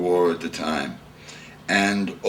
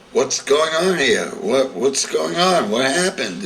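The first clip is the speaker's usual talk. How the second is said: alarmed father; 7 semitones higher, 3 dB louder than usual. Retold or imitated.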